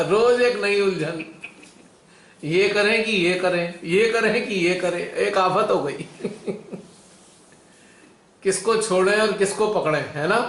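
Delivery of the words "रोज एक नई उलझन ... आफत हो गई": chuckling through the words; teasing, half laughing. Real, not acted. Teasing about daily confusion.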